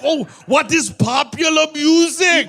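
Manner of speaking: high mock shout of wonder; no inside voice. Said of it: "And he's like".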